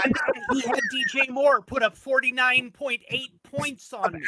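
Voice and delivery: loud laughing complaint; laughing disbelief. Real, not acted. Laughing about bad luck.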